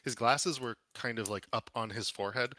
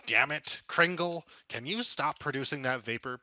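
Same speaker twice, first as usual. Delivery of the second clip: shrill-free hag shout, higher and louder; old crone yelling; 4 semitones higher, 5 dB louder than usual. Acted. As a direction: yell it like an old crone through a wall. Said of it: "a voice of an old crone yelling".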